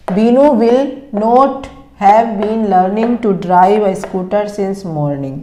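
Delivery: slow, word-by-word dictation of English sentences. Shown as a demonstration. Teacher dictating sentences to students, slow and careful. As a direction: read each word out slowly so students can write it.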